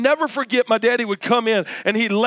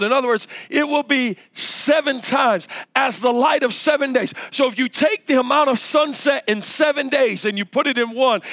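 higher-pitched preacher's build; emphatic preaching; 5 semitones higher than usual. Real, not acted. Preacher expounding scripture to the congregation, emphatic preaching. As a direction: preach it with rising fervour, leaning on key words.

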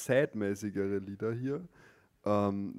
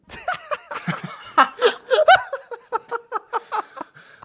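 loud laugh; 13 dB louder than usual. Real, not acted. Laughs at his own slip.

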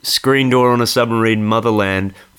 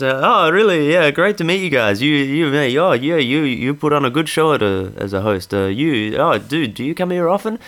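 a touch of a gushing fan, pitched higher; eager fanboy; 4 semitones higher than usual. Retold or imitated. Comedian mimicking stranger gushing at quiz host, lightly higher. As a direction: mimic a starstruck guy fawning, lightly.

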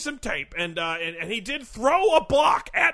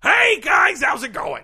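brash sportscaster; 2 semitones higher, 5 dB louder than usual. Acted. Sportscaster character greeting hosts.

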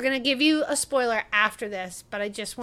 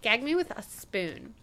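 lightly voiced Valley Girl; a hint of mock Valley Girl; 4 dB quieter than usual. Host rounding off the bit, understated Valley Girl. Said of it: "give me your best Valley Girl".

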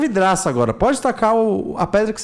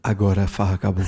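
much lower and quicker, a hammed-up threat; mock menacing voice; 10 semitones lower, faster than usual. Shown as a demonstration. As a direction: growl it down low like a villain. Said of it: "Quero tua entonação".

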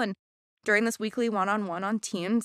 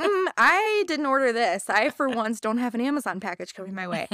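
mock puzzlement; 3 semitones higher, 4 dB louder than usual. Acting out puzzlement at surprise package.

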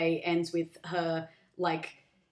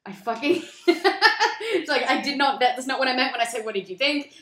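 high, loud exasperated rant; mock exasperated wife; 6 semitones higher, 6 dB louder than usual. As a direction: vent the frustration, louder. Frustrated wife retold.

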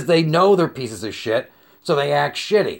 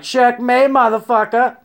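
higher, louder gloating shout; triumphant taunt; 6 semitones higher, 4 dB louder than usual. Retold or imitated. On the elephant facing the clerk, loud gloating taunt. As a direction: gloat like you just won. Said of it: "I'm like".

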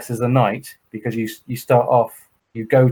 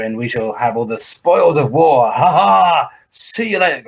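pompous medieval host; slower than usual. Retold or imitated. Teller voices castle staff retiring to camp, hammy and grand. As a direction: play a grand castle knight showing off.

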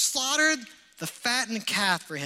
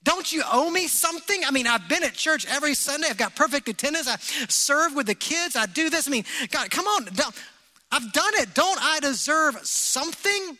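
self-pity; 4 semitones higher than usual. Retold or imitated. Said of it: "And this self-pity".

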